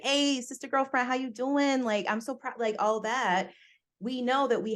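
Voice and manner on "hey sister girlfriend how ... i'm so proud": higher, lively sassy sister greeting, lightly played; turned-on girlfriend voice. Shown as a demonstration. Showing the voice she could turn on, high and sassy. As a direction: switch on the girlfriend voice. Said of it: "turn on like".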